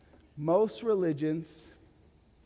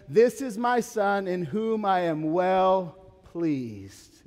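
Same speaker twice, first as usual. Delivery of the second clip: voice of God; 3 semitones higher, 6 dB louder, much slower than usual. Retold or imitated. God's words at the baptism.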